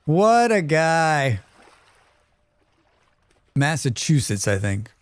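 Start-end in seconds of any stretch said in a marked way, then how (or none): 0.0-1.4 drawn-out. Shown as a demonstration. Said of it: "repeated after plain take".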